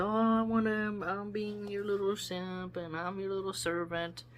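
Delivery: a lightly voiced high, fawning simp; mock devoted suitor; lovesick simp. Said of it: "He was like".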